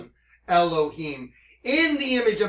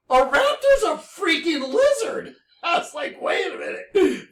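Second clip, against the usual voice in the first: shocked; 10 semitones higher, 3 dB louder than usual. Real, not acted. Shocked realization.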